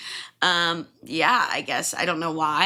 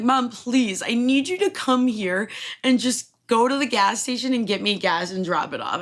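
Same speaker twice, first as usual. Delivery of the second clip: loud, higher pleading to mom; begging; 6 semitones higher, 5 dB louder than usual. Retold or imitated. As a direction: beg mom urgently to bring gas. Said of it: "I'm like".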